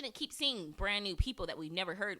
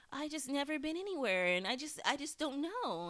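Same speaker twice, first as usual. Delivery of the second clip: mock helpless whine; 6 semitones higher than usual. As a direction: play innocent and lost. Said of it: "acting like".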